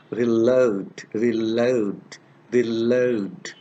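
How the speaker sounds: "reload" with an ow glide, like "ree-lowd"; video game pronunciation. Shown as a demonstration. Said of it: "they say reload".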